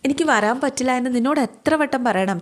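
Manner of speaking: a mild annoyed brother repeating himself; exasperated repeat. Acted. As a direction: say it again, lifted and impatient. Brother refuses sister's plea.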